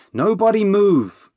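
high, loud, slow commanding shout; shouted order. A narrator's reading. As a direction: bark the order to freeze the whole room. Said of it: "Bernie shouted".

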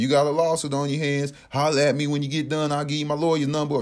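lightly imitated southern holler; imitated southern shout. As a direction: mimic a Louisiana man calling out. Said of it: "A black dude out there screaming".

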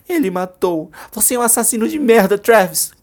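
high, loud cursing rage; furious outburst at the killer; furious shout. Acted. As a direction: spit the insult loud. Júlia curses Travis.

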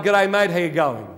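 casual, matey Aussie greeting; informal slang. Acted. Comparing Aramaic to slang, informal. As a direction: toss it off like slang between mates. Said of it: "Aramaic is like".

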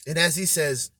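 usual speaking voice

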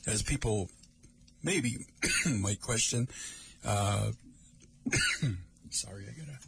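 coughing after the wrong pipe; choking on a sip of water. Real, not acted. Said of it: "Went down the wrong pipe".

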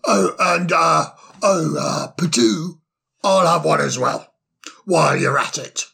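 put-on cheery, fussy old owl voice; bustling, delighted host; jolly old owl. Solly adds an order.

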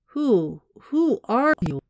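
halting, high, slow question; startled stammer. A narrator's reading. Rescued man asks the armed stranger who he is, startled. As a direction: stammer it out, pitch leaping on each "who".

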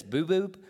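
put-on "boo boob" said like a toddler for YouTube; toddler mispronunciation. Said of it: "he can't say YouTube".

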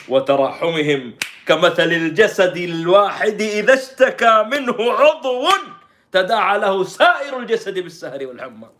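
slow, loud declaiming that climbs high; mock sermon, rising to a cry; impassioned recitation. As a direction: stretch it like a fervent preacher. Declaims a hadith in mock appeal.

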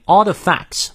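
"are the facts" with no R in "are"; R dropped. Shown as a demonstration. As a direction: say "are" as a long open "ah" before "the facts". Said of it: "那个R不念". (“are the facts”中are的R不念)

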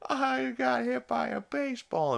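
very high mock-tearful wail; Chris crying. Chris crying as he gets spanked, high mock wail. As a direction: whimper it out in a high, hammed-up cry. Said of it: "Chris is crying".

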